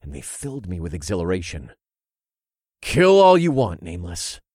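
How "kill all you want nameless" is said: encouraging call. Acted. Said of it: "I encouraged over the sounds".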